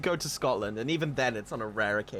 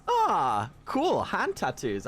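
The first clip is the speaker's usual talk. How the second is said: retold delight; 3 semitones higher, slower than usual. Streamer spotting henna in London, mildly reenacted delight. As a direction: mildly act out a delighted discovery. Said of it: "I was like".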